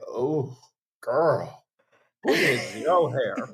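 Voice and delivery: same compliment turned into a dig; shady judgment. Retold or imitated. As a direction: drag it out, a week-later side-eye. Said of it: "it's like".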